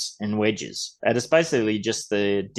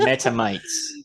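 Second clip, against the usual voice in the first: mock British accent, pitched much higher; horrendous British accent; slower than usual. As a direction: ham up a terrible British accent on "Meta mates". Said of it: "we started doing horrendous British accents".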